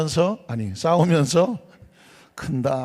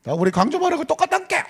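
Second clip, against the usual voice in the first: higher, fast Jeolla dialect; faster than usual. Retold or imitated. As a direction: mimic the Gwangju deaconess in Jeolla speech. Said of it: "광주가 고향인 권사님은". (광주 권사님 흉내, 높고 빠른 전라도 사투리)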